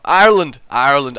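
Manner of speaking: attempted Irish accent on "Ireland"; practised Irish-accent "Ireland". Shown as a demonstration. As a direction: say "Ireland" as an Irish person would. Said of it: "the word Ireland, in an Ireland accent".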